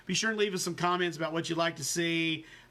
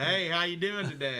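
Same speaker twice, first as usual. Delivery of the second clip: train robber. Pretend. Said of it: "train robber voice and mask".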